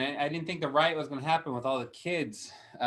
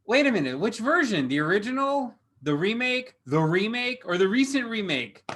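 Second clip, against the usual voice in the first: mock confused; 7 semitones higher than usual. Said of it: "I was like".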